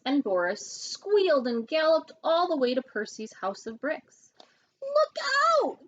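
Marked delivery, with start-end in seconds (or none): 4.8-5.9 high, loud warning shout. A narrator's reading. Pigs running to Percy, shouting. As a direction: yell the warning. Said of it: "they shouted".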